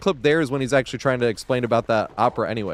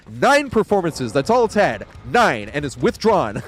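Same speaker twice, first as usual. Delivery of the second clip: indignant Salieri; 2 semitones higher, slower than usual. Retold or imitated. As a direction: spit out the count like a bitter rival. Salieri quoted in his office.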